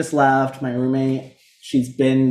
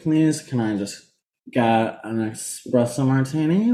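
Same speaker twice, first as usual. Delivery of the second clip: Meredith Marks voice; slower than usual. Retold or imitated. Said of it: "talking in a Meredith Marks voice".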